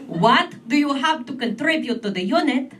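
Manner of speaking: mock insistent correction; impatient interviewer. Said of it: "He's like".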